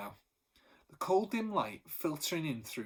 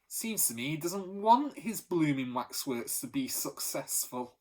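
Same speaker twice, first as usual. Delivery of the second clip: louder, dismissive grumble, slowing at the end; scornful; 3 dB louder than usual. Acted. Benny complaining to the gang about the professor, scornful. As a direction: sneer at the professor's jealousy. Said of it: "said Benny with a profound scorn".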